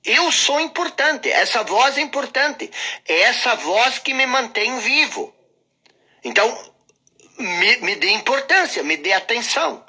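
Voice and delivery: nagging inner voice. Acted. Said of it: "Essa voz diz o seguinte".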